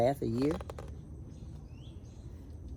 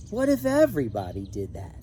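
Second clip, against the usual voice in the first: louder, a changed voice for the driver; lightly voiced bus driver, louder; bus driver scolding; 4 dB louder than usual. Bus driver glares in mirror.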